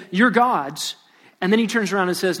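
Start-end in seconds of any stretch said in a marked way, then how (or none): 0.1-1.0 mildly sarcastic pronouncement; understated sarcasm. Acted. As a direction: say it with a touch of mock acceptance. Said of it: "God is sarcastically saying".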